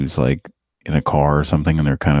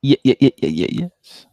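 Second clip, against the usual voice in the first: excited; 8 semitones higher than usual. Real, not acted. Joins the cheering.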